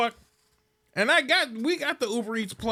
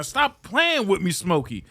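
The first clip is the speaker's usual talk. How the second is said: Big Worm; slower than usual. Retold or imitated. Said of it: "I feel like fucking Big Worm now".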